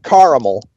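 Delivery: caramel with a middle syllable, CAR-uh-mul; three-syllable caramel. Shown as a demonstration. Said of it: "as we say in the".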